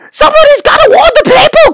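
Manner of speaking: urgent cry. Acted. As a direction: cry out the warning in alarm. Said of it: "cried Bartholomew".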